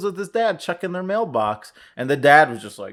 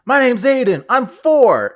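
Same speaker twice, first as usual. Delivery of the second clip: put-on little kid voice; 9 semitones higher, 7 dB louder, slower than usual. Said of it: "the little kid's like".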